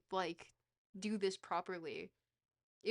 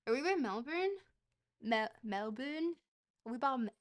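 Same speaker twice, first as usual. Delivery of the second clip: attempted Australian accent; 2 semitones higher than usual. Streamer testing a slipping accent on Melbourne, attempted Australian accent. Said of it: "I'm losing my Australian accent".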